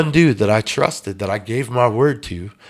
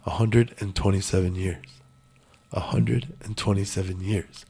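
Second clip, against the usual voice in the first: echoing thought; 2 semitones lower, 6 dB quieter than usual. Retold or imitated. Man alone at home haunted by his sentence, echoing quietly. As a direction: let it hang like a thought echoing in your head. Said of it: "It just keeps echoing in my head".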